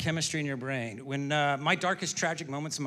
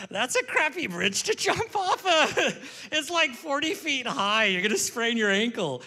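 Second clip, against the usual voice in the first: very high, loud, drawn-out squawk; mock exasperated protest; 10 semitones higher, 5 dB louder than usual. Friend talking a girl off a bridge, high mock exasperation. Retold joking to suicidal friend.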